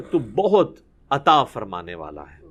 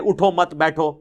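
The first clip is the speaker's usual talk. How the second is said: اٹھو مت together, بیٹھو after it; grouped words. Shown as a demonstration. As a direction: say اٹھو مت as one unit, then بیٹھو. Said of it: "اٹھو مت کو علیحدہ کر دیں".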